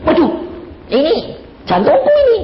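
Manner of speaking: high, loud cry of alarm. Retold or imitated. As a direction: reenact the panic of a sudden heart attack. Reliving his midnight heart attack.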